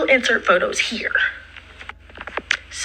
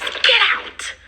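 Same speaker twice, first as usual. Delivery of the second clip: mock yell; 14 semitones higher than usual. Friend throws her out.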